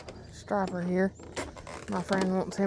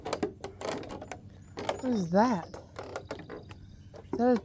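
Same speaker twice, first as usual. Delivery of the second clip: slow, softer whispered question; hushed whisper; 12 dB quieter, much slower than usual. Real, not acted. Fisherman spotting something in the water, slow hushed whisper. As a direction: whisper so you don't spook it.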